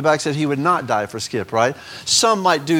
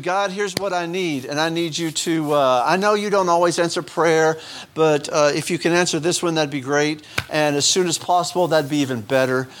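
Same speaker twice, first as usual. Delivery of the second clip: casual demanding prayer. Pretend. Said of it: "Instead of this attitude".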